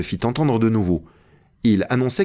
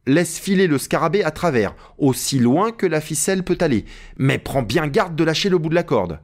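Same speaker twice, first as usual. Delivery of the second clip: higher-pitched careful orders; Legrand, commanding master; 6 semitones higher than usual. Acted. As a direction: instruct the climber, voice pitched up. Narrator voices Legrand giving orders. (Legrand, consignes pressantes)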